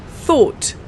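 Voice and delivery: "Thought" said clearly with th and a crisp t; say together. Shown as a demonstration. Teacher saying thought together with learners, clear. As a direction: lead "Thought" for the class to copy. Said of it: "Let's try this together".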